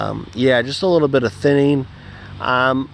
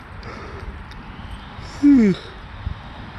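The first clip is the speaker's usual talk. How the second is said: pained sigh; 3 dB quieter than usual. Real, not acted. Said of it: "cramping up".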